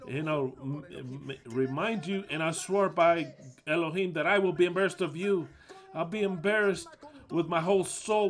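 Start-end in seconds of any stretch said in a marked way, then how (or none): 2.3-8.3 raised, emphatic swearing of an oath; heated, indignant insistence; angry vow. Real, not acted. Preacher swears he will be embarrassed of them, angry.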